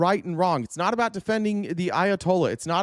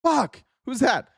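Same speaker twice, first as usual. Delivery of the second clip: higher, mock-exasperated swearing and asking; exasperated curse; 5 semitones higher, slower than usual. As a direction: throw up your hands, groaning curse then a quick question. Exasperated cursing at each new group.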